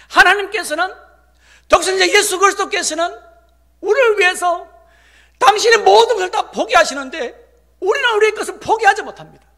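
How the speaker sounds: loud, high, impassioned proclamation; full-force preaching. Real, not acted. Pastor proclaiming Christ gave up everything, preaching at full force. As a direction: ring it out over the congregation.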